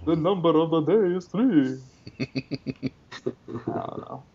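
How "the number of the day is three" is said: Sesame Street voice. Pretend. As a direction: Count von Count voice. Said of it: "in that Sesame Street voice".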